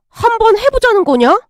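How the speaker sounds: dog's words read high. Retold or imitated. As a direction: squeak the dog's challenge out high. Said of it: "이러는데?".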